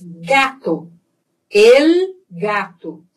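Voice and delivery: "gato" with a hard G as in go. Shown as a demonstration. Teacher compares with Portuguese, hard G in "gato". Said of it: "é igual ao português".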